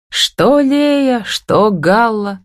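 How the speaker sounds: dismissive snort at a comparison. A narrator's reading. Son scoffing at his mother's riddles, snorting. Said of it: "фыркнул он".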